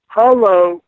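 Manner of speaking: put-on high, eerie little girl's hello; mock spooky child's voice; ghostly girl's hello. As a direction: echo her ghostly greeting. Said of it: "And she says".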